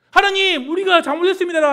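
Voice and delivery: high, loud cry to God; pleading prayer. Pretend. Israelites crying out to God in repentance, loud pleading.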